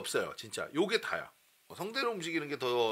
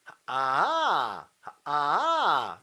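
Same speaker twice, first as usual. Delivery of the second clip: slow 하, 아 pulled up a few notes; pulled pitch; much slower than usual. Shown as a demonstration. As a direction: pull the pitch up a little. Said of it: "당겨".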